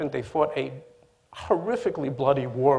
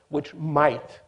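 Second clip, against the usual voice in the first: "might" said a bit louder and held; stress on might; 5 dB louder than usual. Real, not acted. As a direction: lean into the word "might". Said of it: "and I stress the word might".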